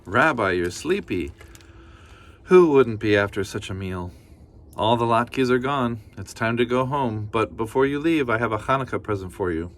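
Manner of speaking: a hint of a cheerful granny; kindly grandmother. Baba Brena thanking the bear, lightly voiced granny.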